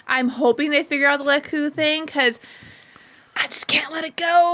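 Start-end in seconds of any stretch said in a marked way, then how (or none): 3.3-4.5 whispering. Acted. Mock-dramatic confession about Leku.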